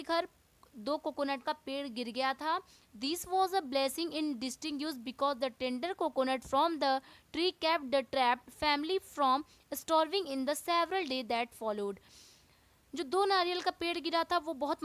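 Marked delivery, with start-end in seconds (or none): 3.0-12.0 slow, careful textbook reading; teacher reading the chapter to students, slow and deliberate; reading aloud. Acted. Teacher reading the English lesson to class, slowly.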